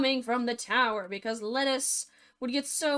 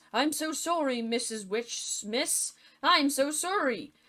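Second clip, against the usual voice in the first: higher, hurried grovelling apology; panicked apology; 4 semitones higher than usual. Retold or imitated. Husband grovelling to the witch, panicked apology. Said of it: "he was all like".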